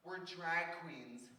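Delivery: drawn out, stretching each word; slow, stretched-out declaration; slow proud announcement. Retold or imitated. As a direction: announce it very slowly, as Tammy would. Tammy's drawn-out announcement at immigration.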